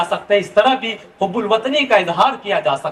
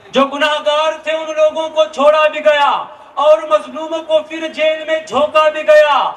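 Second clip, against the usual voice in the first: stately nazm recitation; 3 semitones higher than usual. Acted. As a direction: recite the poem with sorrowful weight. Nazm continued to end.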